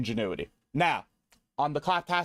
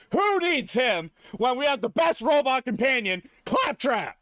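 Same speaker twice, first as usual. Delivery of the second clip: hyped sing-song; 4 semitones higher than usual. Acted. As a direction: belt it like an ad jingle. Hyping Claptrap as best robot.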